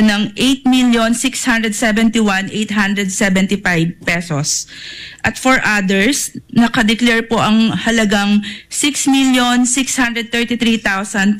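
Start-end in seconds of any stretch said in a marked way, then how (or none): none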